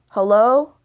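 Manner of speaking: raspy stranger answering the phone; lightly rasped hello; raspy male voice. Retold or imitated. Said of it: "again in the same raspy voice".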